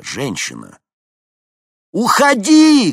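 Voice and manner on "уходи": very high, very loud scream; full scream. A narrator's reading. Henni screams to the woman from the helicopter, full scream. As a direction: shout with all your might. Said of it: "крикнула Хенни, что есть мочи".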